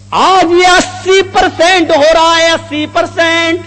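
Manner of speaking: fervent preaching. Real, not acted. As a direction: preach it to a crowd with conviction. Preaches at full force. (پرجوش خطیبانہ انداز)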